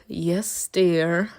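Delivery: low, quiet resigned reply; lightly imitated bored compliance; bored husband. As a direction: give in like a weary husband. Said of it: "husband that literally is bored to death".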